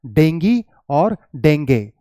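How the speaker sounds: dengue first as "DENG-ghee", then dengue as "DENG-gay"; two accepted pronunciations. Shown as a demonstration. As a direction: contrast dengue ending "ee" with dengue ending "ay". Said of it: "it is either".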